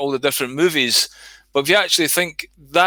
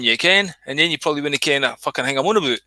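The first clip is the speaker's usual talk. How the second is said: quick, broad Glaswegian patter; Glaswegian accent; faster than usual. Shown as a demonstration. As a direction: rattle it off like a Glasgow local. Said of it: "I could talk like a Glaswegian".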